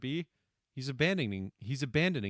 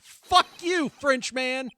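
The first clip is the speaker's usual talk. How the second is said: loud higher shout at the screen; mock yell; 8 semitones higher, 10 dB louder, much slower than usual. Streamer yelling at the game's French witness, loud mock yell. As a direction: hurl it at the Frenchman.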